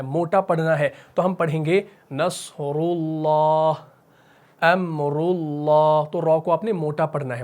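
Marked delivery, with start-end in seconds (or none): 2.1-6.1 नसरुल्लाह, अमरुल्लाह slow, रु full-mouthed; heavy ru. Shown as a demonstration. Teacher summing up the rule, slow heavy ru. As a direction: recite both with a heavy रु. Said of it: "मुंह भर के पढ़ना है".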